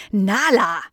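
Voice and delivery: stern name-call with falling end; scolding. Acted. Tante Miriam sees the mess, scolding. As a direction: say the name as a reprimand. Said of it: "schimpfte sie".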